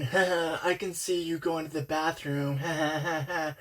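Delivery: imitated creepy chuckle around a taunt; mock creepy laugh. Creep taunting someone from the next stall, mock laughing. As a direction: put on a creep's gloating ha-ha.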